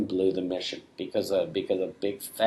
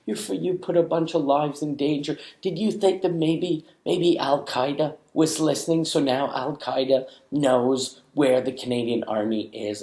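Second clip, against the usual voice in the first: high mock outrage; outraged scolding; 5 semitones higher than usual. Army woman blaming him for Al Qaeda, high mock outrage. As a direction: hammer him with sarcastic blame. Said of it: "they were like".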